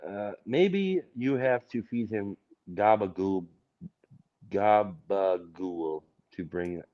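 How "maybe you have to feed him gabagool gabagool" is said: put-on Jersey accent. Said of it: "to bring out the Jersey".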